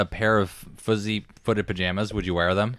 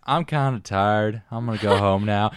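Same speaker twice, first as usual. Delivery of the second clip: Forrest Gump; slower than usual. Retold or imitated. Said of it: "Like Forrest Gump".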